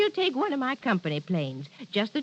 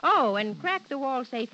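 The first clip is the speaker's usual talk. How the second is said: bossy order; 3 semitones higher than usual. Acted. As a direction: shoo him off with a brisk order.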